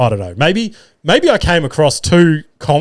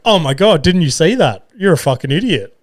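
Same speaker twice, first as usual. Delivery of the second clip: imitating angry wife; 4 semitones higher than usual. Wife Nikita berating him for bumping the gutter, mock angry. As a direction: scold the driver, hammed up.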